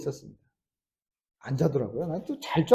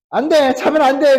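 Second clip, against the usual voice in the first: higher, louder, urgent; retold shout; 6 semitones higher, 5 dB louder than usual. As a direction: yell her awake while shaking her. Father shaking daughter awake. (딸을 흔들어 깨우며 크게 외치는 아빠)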